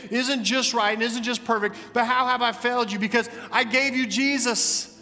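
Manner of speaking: high, urgent pleading from the pulpit; impassioned preaching. Acted. Preacher voicing God pleading with his people to repent, impassioned preaching.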